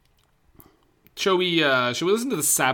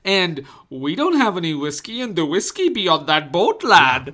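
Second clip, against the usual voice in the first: put-on Scottish accent; 4 semitones higher, 6 dB louder than usual. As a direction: growl it like an old Scots father. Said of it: "Why do I sound like a leprechaun?".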